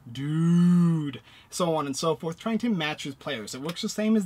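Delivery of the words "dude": long, loud drawn-out dude; stretched loud dude. Shown as a demonstration.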